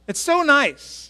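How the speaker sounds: high and slow, almost swooning; gushing. Real, not acted. Pastor gushes to the church about his GPS voice. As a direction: linger on how nice it is.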